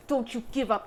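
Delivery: firm, urgent "Don't you give up"; strong warning. Retold or imitated. A spirit warning the viewer, firm and urgent. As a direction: say it like a stern order from a spirit. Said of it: "Okay, that was very strong".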